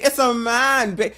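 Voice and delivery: mock Austin Powers. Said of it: "Austin Powers".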